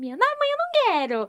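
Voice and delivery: thin, high little voice. Retelling own childhood words to the mother: very thin voice. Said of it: "porque eu tinha a voz bem fininha".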